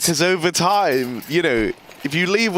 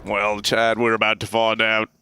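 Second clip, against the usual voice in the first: put-on Australian accent; 4 semitones lower than usual. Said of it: "it always goes Australian".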